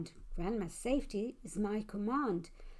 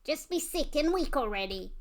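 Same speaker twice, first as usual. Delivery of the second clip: mild monster shout; 5 semitones higher than usual. Acted.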